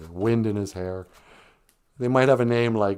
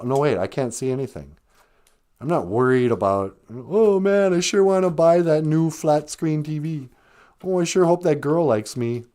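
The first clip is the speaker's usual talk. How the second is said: imagined panic; 5 semitones higher, 4 dB louder than usual. Retold or imitated. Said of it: "You go".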